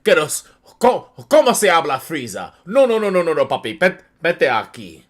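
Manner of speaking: lightly voiced Spanish soap-opera dub; mock Spanish dub. Friend improvising Spanish dub dialogue, mildly acted. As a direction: rattle off fake dub Spanish. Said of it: "Nigga in Spanish".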